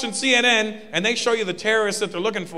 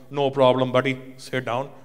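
mock bro voice; 6 semitones lower than usual. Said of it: "I don't know why he was talking like that".

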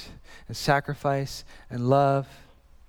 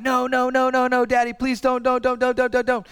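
imitating crying child; 7 semitones higher than usual. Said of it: "she's just crying".

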